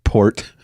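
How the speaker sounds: "Port" said alone with its final T; single careful "Port", not "pork"; correcting pronunciation. Shown as a demonstration. Co-host corrects the host's pork, careful "Port". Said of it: "It sounded like you said pork".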